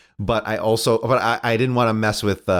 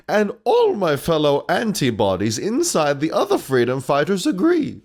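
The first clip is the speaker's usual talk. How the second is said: put-on old lady walrus voice; 5 semitones higher than usual. Old lady antibody voice again.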